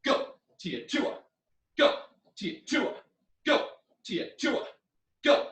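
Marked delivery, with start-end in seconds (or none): 0.6-1.2 quick shouted kiai; karate yells. Shown as a demonstration. Teacher calling the drill and yelling along. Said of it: "you do both". 2.4-2.9 high shouted kiai; karate yells. Shown as a demonstration. Teacher drilling punches with yells. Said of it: "you do both". 4.0-4.6 high, breathy shouted kiai; karate yells. Shown as a demonstration. Teacher drilling punches with yells. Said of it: "you do both".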